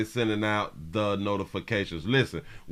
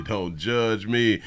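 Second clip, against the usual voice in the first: slow drawn-out; much slower than usual. Real, not acted. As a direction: drag it out slowly, teasing.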